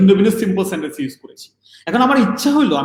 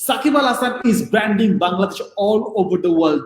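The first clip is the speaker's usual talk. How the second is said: slow example reading; 2 semitones higher, much slower than usual. Shown as a demonstration. Reads example sentence slowly.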